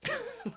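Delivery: short high-pitched laugh; quick high giggle. Real, not acted. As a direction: burst into a brief, high laugh. Swooning over woman in love.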